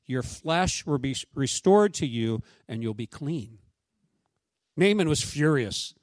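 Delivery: measured, earnest Bible reading; scripture reading. Acted. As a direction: read the passage aloud to the congregation. Pastor reads Naaman scripture passage aloud.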